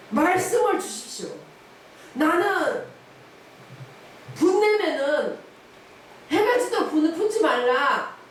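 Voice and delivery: pleading to God, voice high and loud; desperate loud prayer. Retold or imitated. A wife alone in prayer, pleading loudly.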